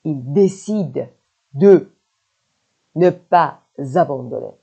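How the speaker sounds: slow chunks, "de" standing alone; broken up for learners. Shown as a demonstration. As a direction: pause either side of "de". Same sentence broken up for learners.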